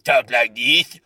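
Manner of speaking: put-on froggy little cartoon-guy voice; Cartman. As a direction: imitate a little frog-like cartoon character. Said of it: "like the Cartman voice".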